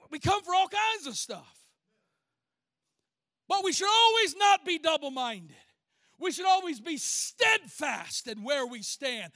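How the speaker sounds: emphatic pulpit rebuke; insistent preaching. Real, not acted. Preacher chiding the congregation to be steadfast, insistent preaching. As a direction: build to a punched call to stand firm.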